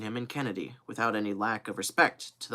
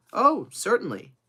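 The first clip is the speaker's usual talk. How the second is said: emphatic assent; 10 semitones higher, 6 dB louder than usual. Acted. Kennedy hurriedly agrees, then qualifies.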